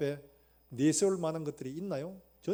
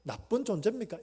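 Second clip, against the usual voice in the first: Job's lament; 4 semitones higher, 7 dB louder than usual. Retold or imitated. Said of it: "이런 거예요, 지금".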